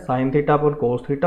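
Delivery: very slow, each word placed for notes; teacher dictating for the notebook, slowly; slow dictation. Shown as a demonstration. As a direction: dictate it so they can write it in the box. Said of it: "तो इनको box में लिख लो एक बार".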